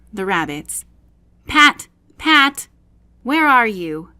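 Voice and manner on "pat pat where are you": high, loud angry calls for Pat; angry calling rabbit. A narrator's reading. Rabbit angrily calling his servant Pat, loud and high. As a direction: shout for the servant, cross and impatient. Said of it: "Next came an angry voice".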